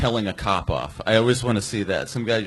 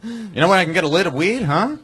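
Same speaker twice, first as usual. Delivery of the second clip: put-on old-timer voice; 9 semitones higher, 5 dB louder than usual. Old school weed buyer.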